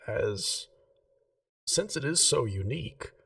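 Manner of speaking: a hint of a prim gem-shop lady, keen on geometry; Remy the jeweller.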